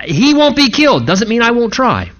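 sly, knowing emphasis on won't; Saul's sly aside. Retold or imitated. Pastor voicing Saul's secret intent, a touch sly. Saul's hidden thoughts voiced.

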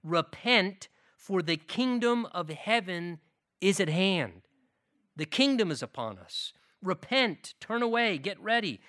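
loud, ringing call to repent; preaching call. Acted. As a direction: preach it out at full force.

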